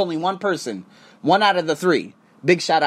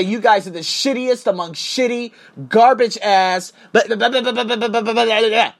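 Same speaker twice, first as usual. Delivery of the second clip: higher, louder mock tirade; pretend cuss-out; 5 semitones higher, 3 dB louder than usual. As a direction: rattle off insults in a fake rage. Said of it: "cuss those motherfuckers out".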